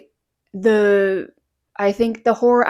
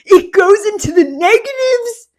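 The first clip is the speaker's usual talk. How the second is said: much higher, louder mock astonishment; surprised exclamation; 10 semitones higher, 8 dB louder than usual. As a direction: gasp it out like a stunned guy. Retelling a guy's surprised reply.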